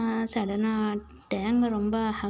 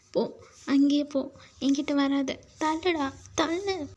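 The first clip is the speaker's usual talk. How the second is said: angry; 3 semitones higher than usual. Acted. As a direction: push them away with your voice. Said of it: "கோவமா இருக்கேன்னு சொல்றேன்ல".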